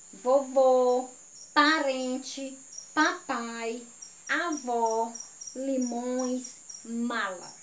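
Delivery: teacher's read-aloud voice. Shown as a demonstration. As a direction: call out each word for the class. Reads word list aloud as instructed.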